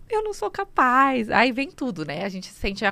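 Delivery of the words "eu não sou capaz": desesperada. Retold or imitated. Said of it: "que eu falava".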